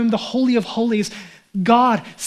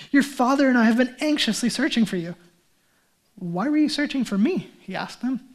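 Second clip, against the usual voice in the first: scripture reading. Acted. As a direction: read the gospel passage steadily. Reads scripture passage aloud.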